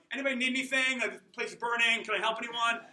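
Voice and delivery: cheery firefighter. Retold or imitated. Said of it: "running into a building going".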